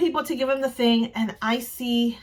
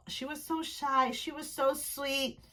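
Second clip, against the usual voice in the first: soft, slow, drawn-out fondness; tender gushing; 2 semitones higher, 10 dB quieter, slower than usual. Real, not acted. Fan remembering shy Irene, tender. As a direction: dwell on it softly and slowly.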